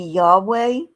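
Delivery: "Yahweh" with a Y start and W in the middle; "Yahweh", drawn out, no J or V sound; suggested Hebrew pronunciation. Shown as a demonstration. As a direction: say "Yahweh" slowly as a tentative reconstruction. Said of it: "Hebrew does not have the J sound".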